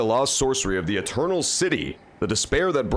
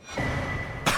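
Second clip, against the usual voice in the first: quiet, breathy little chuckle; soft laugh to yourself; short laugh; 5 dB quieter than usual. Real, not acted. Laughing before praising a game.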